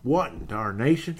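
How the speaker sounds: fuller, punchier mock Western exclamation; old Western character. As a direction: lightly imitate a baffled old Western character. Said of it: "old Western shows there".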